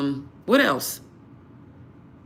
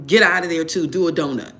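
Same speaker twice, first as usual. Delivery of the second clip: loud, emphatic command; 2 semitones lower, 5 dB louder than usual. Real, not acted. Viewer being warned off a partner, loud firm command. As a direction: get out of there, loud and firm.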